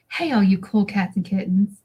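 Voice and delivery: lightly imitated cheery catchphrase greeting; Carol Baskin. Guest showing the host how the catchphrase goes, light impression. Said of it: "in Carol Baskin's".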